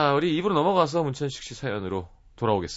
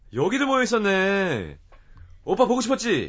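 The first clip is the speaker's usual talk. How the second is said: put-on sing-song, high, swooping, annoying, pushy voice; 6 semitones higher than usual. Acting out a listener's story as the annoying senior who finds the group: acting an annoying senior. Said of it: "나 이런 역할 연기해보고 싶다".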